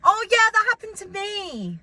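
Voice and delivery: high, loud, gushing interruption; self-centred listener. Acted. Acting the worst reply to sad news, high and loud. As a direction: burst in to make it all about you. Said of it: "I know what the worst thing is".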